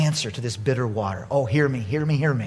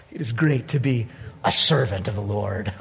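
low, soft and satisfied; contented; 8 semitones lower, 5 dB quieter than usual. Retold or imitated. Pastor unwinding at home after Sunday ministry, contented. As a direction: savour it with quiet contentment.

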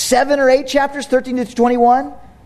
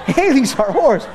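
put-on giggling child; 2 semitones higher than usual. Daughter laughing in story.

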